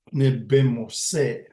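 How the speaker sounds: "Ne bimose" said slowly and clearly; careful slow demo. Shown as a demonstration. Teacher modeling "I am walking" for learners, slow. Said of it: "teaching the word".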